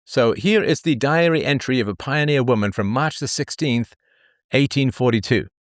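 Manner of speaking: put-on light Valley Girl lilt on the intro; breezy Valley Girl read. Shown as a demonstration. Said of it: "not gonna do this in my standard Valley Girl voice".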